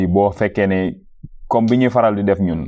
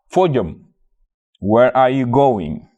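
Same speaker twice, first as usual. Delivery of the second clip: asking someone. Retold or imitated. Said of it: "Mu ne la".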